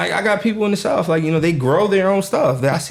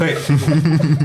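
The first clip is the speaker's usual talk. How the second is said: laugh. Real, not acted. Friends joking, laughter.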